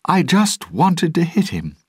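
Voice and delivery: high, loud call to a crowd; shouting. A narrator's reading. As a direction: shout it out to a rowdy crew. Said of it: "she shouted to the pirates".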